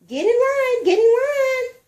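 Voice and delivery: high, loud repeated command; teacher hurrying children into line; teacher's order. A narrator's reading. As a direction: bark it twice at the class.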